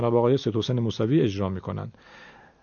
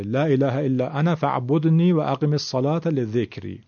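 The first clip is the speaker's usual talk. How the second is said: Quran recitation. Shown as a demonstration. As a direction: recite لا اله الا انا فاعبدنی with انا read with short fatha. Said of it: "به معنای من".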